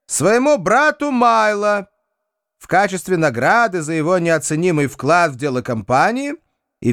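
high, formal notary reading; will reading voice. Acted. A figure reads out the will.

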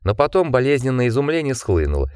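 ordinary delivery, nothing marked

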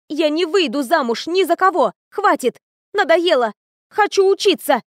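high, loud building cry; shouting refusal. A narrator's reading. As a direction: yell it out, finally fed up. Heroine shouting refusal at family.

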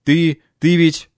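put-on slow, hesitant muttering old man; muffled mumble. A narrator's reading. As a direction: stammer it out under the breath. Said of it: "глухо пробормотал профессор".

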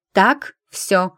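громкий строгий окрик; гаркнуть, чтобы все замолчали; рявкнула. Acted. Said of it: "рявкнула она". (врач рявкает на посетителей, громко)

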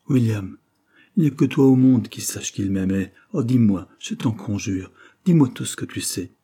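loud, urgent begging; a girl imploring her friend for news; anguished pleading. Acted. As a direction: beg him for the truth, voice straining. Anna begging William for news.

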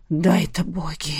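stunned whisper; breathed whisper. Acted. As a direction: exhale it like a wounded wolf. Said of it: "выдохнул Рейгар".

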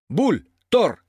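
high, loud summons; commanding. A narrator's reading. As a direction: call two helpers to order. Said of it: "тотчас скомандовал Петя". (командует)

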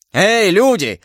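high, urgent call for help; shouted call. A narrator's reading. Duke threatened by the officer summons his people, shouting. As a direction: cry out for the servants. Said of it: "закричал герцог".

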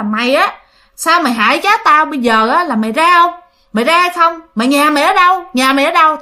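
angry aunt. Retold or imitated. Aunt confronts the spirit possessing her nephew's child, angry. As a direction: imitate an aunt pressing an intruder with repeated questions. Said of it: "dì Sáu mới tức lắm".

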